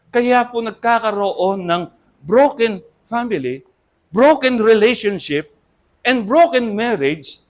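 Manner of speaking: slow, weighty stress on each broken; slow emphatic list. Acted. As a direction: hammer each broken slowly. (mabagal at mariing pagbigkas ng broken)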